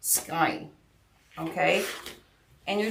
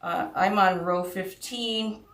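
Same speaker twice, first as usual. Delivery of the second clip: mumbling; 6 dB quieter than usual. Real, not acted. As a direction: mumble it, worn out. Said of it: "if I sound like I'm mumbling".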